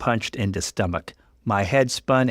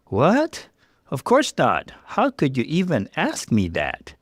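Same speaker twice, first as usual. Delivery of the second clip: high startled "What?" then hurt protest; shocked denial; 6 semitones higher than usual. Acted. Fiancé accused of cheating, shocked denial. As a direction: sound caught off guard and wounded. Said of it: "Mark looked shocked".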